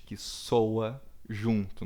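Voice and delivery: "Que soa junto" drawn out slowly, leaning on "soa"; slowly stressing "soa" while explaining the term; slow explanation. Shown as a demonstration. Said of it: "Por que consoante?".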